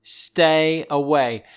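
hammed-up threatened snake; warning rattlesnake. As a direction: warn them off, ending on a slow, drawn-out command. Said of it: "they shake them to threaten".

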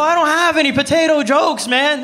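can't hold back the laugh. Real, not acted. To the crowd about the farmer, laughing hard.

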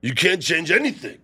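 lightly voiced Rocky; a touch of Rocky. Rocky arguing with Adrian, lightly voiced. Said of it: "you have the better Rocky".

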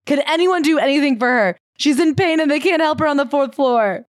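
mock a heroic husband demanding help; dramatic demand. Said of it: "and demanded".

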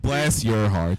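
put-on playful Southern accent. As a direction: echo it with a mock Southern twang. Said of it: "in, in Southern".

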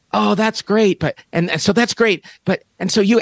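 retold interviewer, pitched a little up; eager interviewer. Interviewer to the kicker after the game, lightly imitated eagerness. Acting out interviewer trying to move on.

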